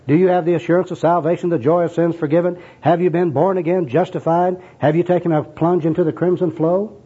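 high, rolling stream of church jargon; sing-song, insistent soul winner; second gospel worker. Acted. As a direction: reel off the questions like an earnest evangelist. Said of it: "this is the second personal worker".

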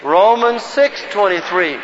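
slow, measured verse recitation; group recitation lead. Shown as a demonstration. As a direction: lead a room in reciting, word by word.

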